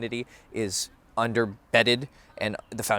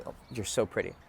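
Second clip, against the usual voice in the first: soft compliment; 3 semitones lower, 8 dB quieter than usual. Retold or imitated. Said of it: "very, like, feminine body language".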